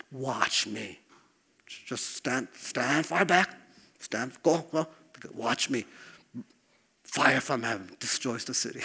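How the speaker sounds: a quiet, lightly voiced divine command; voicing God. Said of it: "he could have said to his people".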